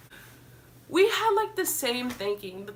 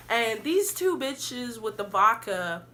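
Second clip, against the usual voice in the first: tipsy; slower than usual. Real, not acted. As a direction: talk a little tipsy, slowed down. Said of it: "I'm feeling it, y'all".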